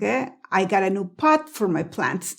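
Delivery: slow demo with "pot" ending on a held T; tongue set for the T of "pot", never released; "pot" with a silent stopped T; unreleased T. Shown as a demonstration. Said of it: "puse la lengua para decir pot".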